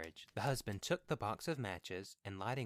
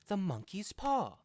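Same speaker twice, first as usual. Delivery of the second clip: high, loud sudden cry; wild cry; 12 semitones higher, 8 dB louder than usual. A narrator's reading. Wife wakes husband with a wild, high cry. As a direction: shriek it out as the thought strikes. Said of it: "she cried wildly".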